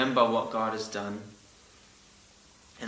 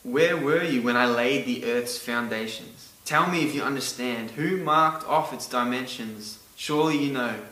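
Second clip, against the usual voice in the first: voicing God; 3 dB louder than usual. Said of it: "he goes".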